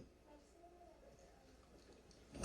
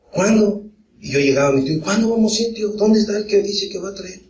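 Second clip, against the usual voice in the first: put-on much higher, eager child pestering his uncle; niño impaciente; 8 semitones higher than usual. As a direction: keep asking when, bursting with impatience. Niño impaciente pregunta al tío. (niño impaciente, con la voz mucho más aguda)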